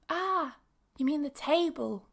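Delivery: high "Ah", then the word corrected; dawning realisation. Pretend. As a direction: play the listener who finally gets it. Listener acts sudden understanding.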